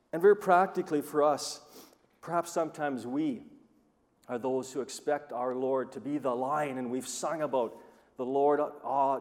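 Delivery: ordinary talk, nothing marked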